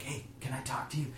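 soft, discreet aside, lightly acted; imitating a hushed approach; furtive approach. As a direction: ask quietly, as if for a private word. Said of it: "it's kinda like Nicodemus at night".

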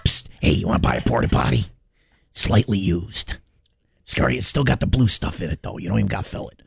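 low, hushed dealer pitch; a hint of a shady alley dealer; secretive raspy sales murmur. Shady alley dealer offers goods.

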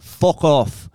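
mock Irish bark with a punch on the swear; Irish accent. Retelling the Irish guy's warning at the bar, Irish accent. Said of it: "an Irish guy".

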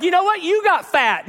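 the pastor joking about his own reply; mock comeback. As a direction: fire it back playfully.

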